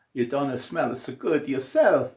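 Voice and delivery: mock shout. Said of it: "all the Greeks shouted out".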